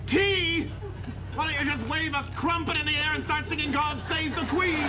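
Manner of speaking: snapping at her. Acted. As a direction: snap at Daphne in exasperation. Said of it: "Don't you snap at her".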